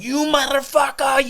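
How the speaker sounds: high, drawn-out mock yell; imitated yelling. Neighbor waving a gun after a kid, mock yell. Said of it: "yelling like this".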